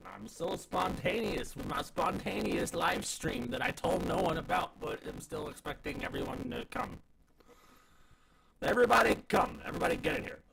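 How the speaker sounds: hammed-up bubbly influencer; mock quirky streamer voice.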